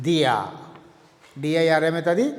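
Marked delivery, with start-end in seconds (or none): 0.1-0.4 దియా with the r turned into 'ya'; దియా, ending on a 'ya' sound; German pronunciation. Shown as a demonstration. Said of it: "ఇంగ్లీష్లో pronunciation".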